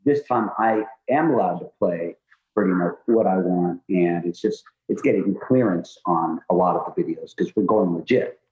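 muffled, like talking underwater; underwater sound. Real, not acted. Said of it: "you sound like you're underwater a little bit".

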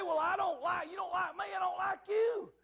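high, loud mock retort; petty rejection. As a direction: act out a tit-for-tat refusal. Hypothetical petty rejection, acted out.

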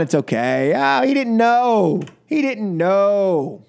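host mocking the excuse made for Don Junior, sarcastic. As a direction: pretend to buy the excuse, dripping sarcasm.

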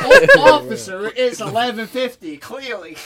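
squeaky high Southern plea to the officer; Southern driver pleading with an officer; Southern accent. Retold or imitated. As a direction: sweet-talk the cop in a drawl. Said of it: "What the fuck is his accent".

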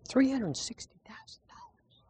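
Three hundred sixty thousand dollars breathed as a soft whisper; awed whisper. Shown as a demonstration. Preacher to congregation, recalling the church paid off, whispering. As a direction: hush it like a secret too big to say aloud. Repeats sum, then whispers it.

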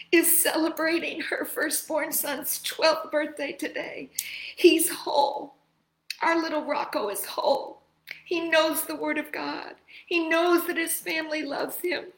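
fighting back happy tears; crying. Real, not acted. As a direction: voice tight with tears of joy. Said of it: "I'm sorry for my tears of joy".

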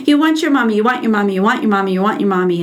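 put-on calm repetition to a screaming child; imitating a gentle teacher calming a toddler; soothing validation. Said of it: "I did what he told me to do".

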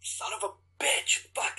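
voiceless, bitter curse under the breath; cursing to himself after the rejection; whispered curse. Retold or imitated. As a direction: mutter it so no one hears. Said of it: "And I was just like".

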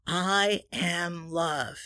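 slow, unhurried I am love; slow affirmation. Shown as a demonstration. Demonstrating the affirmation again, slow and calm. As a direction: savour the words as you say them.

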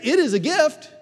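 loud, high, grand pronouncement; hammed-up pompous dedication; mock solemn declaration. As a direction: declare it like a sacred formula. Acting the Pharisee's declaration.

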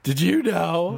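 high, slow goofy zombie voice. Pretend. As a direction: groan it out like a silly zombie. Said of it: "I'm a zombie".

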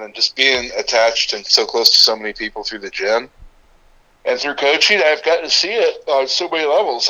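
talking through a yawn; sleepy yawn while speaking. Real, not acted. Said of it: "sorry if I'm yawning a little bit".

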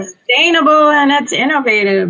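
muffled voice from inside a box; box over head. Real, not acted. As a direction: talk with a cardboard box on your head. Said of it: "see what I'm laughing at".

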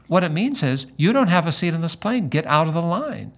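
retold curt brush-off; mock-curt gate agent brushing off a passenger; blunt dismissal. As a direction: dismiss him flatly like a rude agent. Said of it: "She said it just like that".

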